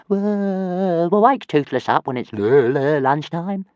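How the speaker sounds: high, stammering dragon voice; drowsy little dragon trailing off; sleepy dragon. Acted. Tiny dragon mumbling before he dozes off.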